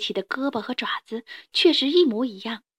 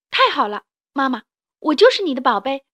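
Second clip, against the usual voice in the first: put-on happy child; 3 semitones higher, 5 dB louder than usual.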